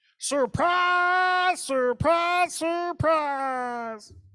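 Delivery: very high, loud, drawn-out, stretched exclamation. Showing an old-school bit he used to do on the radio, Gomer Pyle voice. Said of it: "Gomer Pyle".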